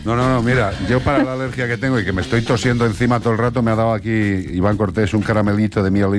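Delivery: talking round a sweet in the mouth; words blurred by a candy on the tongue; mouth full. Real, not acted. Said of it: "si hablo como si tuviera algo en la boca".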